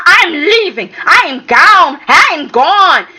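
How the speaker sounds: a touch of angry storming off; upset quote. Retold or imitated. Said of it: "Rick was upset".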